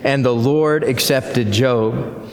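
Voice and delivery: congregation reading aloud together; many voices in unison. Real, not acted. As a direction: read it together as one body. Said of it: "we'll read it aloud together".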